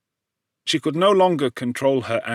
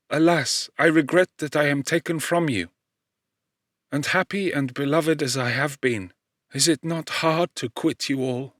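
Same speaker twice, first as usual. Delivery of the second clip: a lightly voiced dying mother, slightly raised and gentle; 3 semitones higher than usual. Dying mother calling to her children, lightly voiced. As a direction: speak as the mother on her deathbed, lifting the voice a little.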